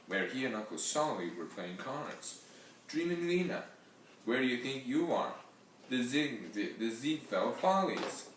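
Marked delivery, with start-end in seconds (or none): 2.9-8.3 mocking yell. Uncle mocks her from dining room.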